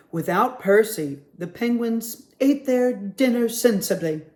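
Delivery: put-on lively storybook read-aloud for kids; reading to children. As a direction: read it like story time at the library. Librarian reads picture book aloud.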